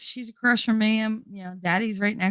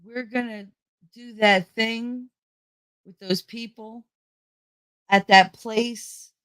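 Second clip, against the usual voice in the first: halting, deliberately vague; mother talking in code; 3 semitones higher, slower than usual. Retold or imitated. Mother hints at weekend plans to grandmother, imitated coded talk. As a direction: pause between each vague phrase. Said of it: "you'll have my mother go".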